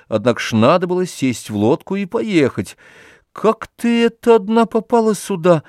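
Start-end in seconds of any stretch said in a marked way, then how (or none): 3.3-5.6 anxious, pressing question, pitched much higher; worried, insisting on an answer. A narrator's reading. Oblomov anxiously asks Olga how she got there, anxious. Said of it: "твердил тревожно".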